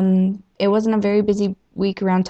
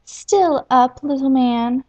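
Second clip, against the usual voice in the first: teasing feathered lady; 5 semitones higher, slower than usual. Acted. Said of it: "she asked".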